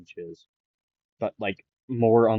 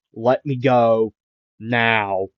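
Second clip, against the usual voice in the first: slightly louder, slowed-out demand; mild mock scream; 4 dB louder, slower than usual. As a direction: act a scream without really screaming. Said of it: "Bakugo would be screaming".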